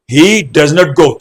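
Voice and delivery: "He does not go" said very slowly, word by word; slow demo. Shown as a demonstration. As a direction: spell the sentence out slowly for students. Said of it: "अगर मैंने बोला". ("He does not go" बहुत धीरे, एक एक शब्द)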